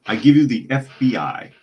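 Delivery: loud, hammed-up fake German accent as Hans Gruber; a lightly put-on German villain accent, proud and loud. Quoting Hans Gruber from Die Hard in a mock German accent. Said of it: "fake German accent".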